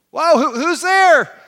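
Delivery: slow, loud, high call; startled, drawn-out shout. Acted. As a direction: call up to an unseen voice. Man calls up to unseen voice.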